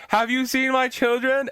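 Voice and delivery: high, slow ghostly mother; mock ghost mother asking after her kids; ghost mom. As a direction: ask it like a wistful spectre. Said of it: "just like".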